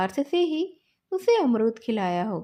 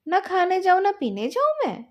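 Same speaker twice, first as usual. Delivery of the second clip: put-on raised, higher, louder child's protest; a boy loudly refusing to give in; indignant shout; 6 semitones higher, 4 dB louder than usual. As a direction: fling the refusal back at him. Boys quarrel over the game.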